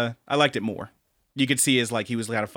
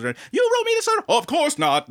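mock accusation. Acts out the musical's argument.

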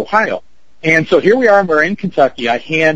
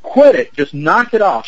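mock yell, pitched high at first, then easing off; retold outburst telling them to stop; grito imitado; 4 semitones higher than usual. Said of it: "She yells".

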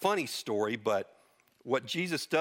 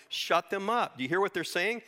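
higher, indignant order and question; mock furious priests; 6 semitones higher than usual. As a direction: play the priests silencing children, half-hearted anger. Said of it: "the chief priests are furious".

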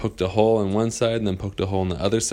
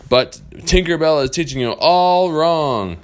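higher, louder, slow pirate protest; Captain Hook objecting; 9 semitones higher, 9 dB louder than usual. Acted. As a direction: drag it out as the grumbling pirate. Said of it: "he goes".

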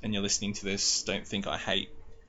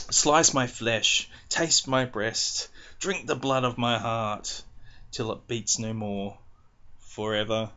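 stifled giggles; 3 dB louder, slower than usual. Real, not acted. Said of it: "reading this with a smile on my face, trying not to laugh".

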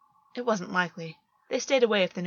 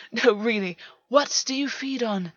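laughing; 3 semitones higher, 4 dB louder than usual. A narrator's reading.

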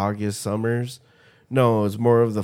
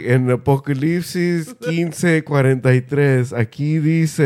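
mock Spanish preacher; 4 semitones higher, 5 dB louder than usual. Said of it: "For them, it was like".

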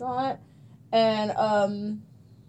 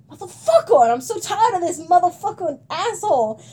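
mock angry yell; 6 semitones higher, 4 dB louder than usual. Coworker's angry reaction.

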